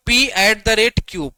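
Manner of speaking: "P at the rate Q" read out slowly, each letter clear. Shown as a demonstration. Teacher reading notation to students, slow and clear. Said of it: "reads notation to class".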